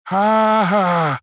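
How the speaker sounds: high, mock "ha ha"; read-out laughter. A narrator's reading. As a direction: spell out a jeering laugh, falling in pitch. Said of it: "The undergraduates laughed".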